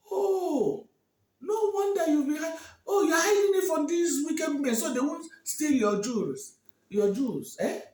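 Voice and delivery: high, loud marvelling praise; delighted king. Acted. King marvelling at Olama's hidden jewels. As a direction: gush with amazement.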